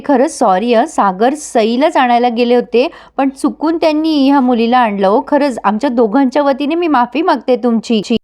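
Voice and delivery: lightly acted sincere apology; genuine, sweet apology. Mukta apologises to the mother on both their behalf, mildly sweet. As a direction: apologise sweetly and earnestly, in understated imitation. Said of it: "एकदम genuine आवाज आणि गोड बोलणं".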